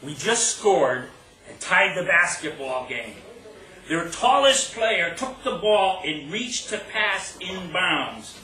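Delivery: deliberate poetry reading with punched key words; phrase it line by line, building suspense; poem recital. Acted. Poet recounting the last play of a game, poem recital.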